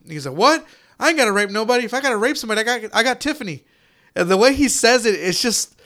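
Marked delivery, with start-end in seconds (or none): 0.4-3.6 lightly imitated country accent, a bit higher; mild mock Southern country voice; weird country dude. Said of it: "weird country dude".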